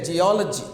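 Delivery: geology with a strong "ol"; stress on second syllable. Shown as a demonstration. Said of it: "you give the stress there".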